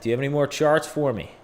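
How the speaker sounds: quick, hammed-up Boston accent. Streamer repeats his question to chat, hammed-up Boston accent. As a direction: rattle it off in a put-on Boston accent. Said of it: "It's my Boston accent".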